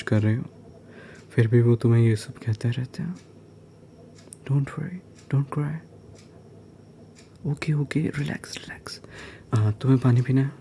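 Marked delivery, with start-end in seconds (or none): 4.4-9.0 soft, higher-pitched comforting, fading to a whisper; tender and consoling, trailing off quietly; soothing reassurance. Pretend. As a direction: gently hush someone who is crying. Comforting someone who is crying.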